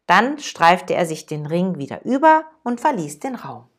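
calm, even storytelling read; measured storyteller voice; story narration. A narrator's reading. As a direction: read the parable to listeners. Reads a parable aloud.

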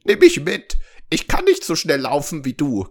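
high, loud frog voice calling after; croaking frog. A narrator's reading. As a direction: croak pleadingly after the runaway. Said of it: "quakte er ihr hinterher". (hinterherquakender Frosch, hoch)

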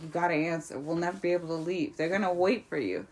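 a quiet, pressing hush; hushed urging. Retold or imitated. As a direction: urge her quietly so they won't hear. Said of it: "She's like".

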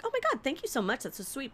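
high, softly gushed mock gratitude; lightly hammed-up thankfulness; gushing thanks. Acting own thanks for offered beer.

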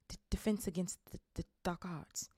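mild mutter with a stammer. Acted. Quirrell asked what he teaches, reluctant stammering mutter. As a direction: mumble it reluctantly. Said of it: "muttered Professor Quirrell".

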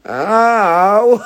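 high startled yelp of pain, imitated; a sudden sleepy ow as the phone lands. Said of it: "like that".

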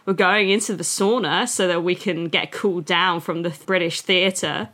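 lightly put-on, clumsy Australian accent; bad Australian accent. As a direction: imitate an Australian, badly. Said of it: "this is my bad Australian accent".

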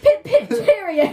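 slow, high, loud British caricature; over-exaggerated British accent. Shown as a demonstration. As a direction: draw out a cartoonish British sign-off. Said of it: "do it over-exaggerated".

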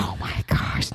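retelling a friend's shocked whisper; whispered quote. Retold or imitated. Retelling how her friend whispered in shock. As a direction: breathe it like a secret. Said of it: "And then she goes".

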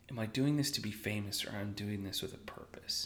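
self-questioning near-whisper; hushed. Retold or imitated. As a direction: ask yourself quietly.

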